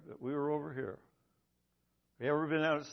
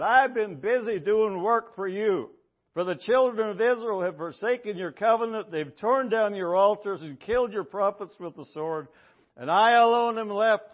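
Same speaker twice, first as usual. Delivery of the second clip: Elijah pleading; 4 dB louder than usual. Acted. Elijah pleading his case.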